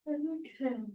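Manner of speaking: real yawn breaking through the instruction. Real, not acted. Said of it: "sorry about my yawning".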